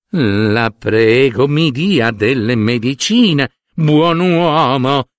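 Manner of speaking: put-on slow, feverish old woman begging for medicine; imploring. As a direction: drag the words out, pleading weakly. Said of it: "implorò". (vecchia che implora lentamente, febbricitante)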